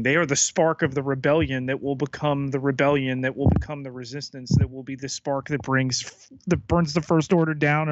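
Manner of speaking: rushed breathless build-up; racing until out of breath. Real, not acted. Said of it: "I'm out of breath".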